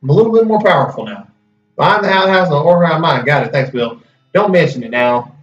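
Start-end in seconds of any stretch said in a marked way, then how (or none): 1.7-5.3 put-on southern accent. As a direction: let a southern accent slip into the character. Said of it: "blending my southern accent in".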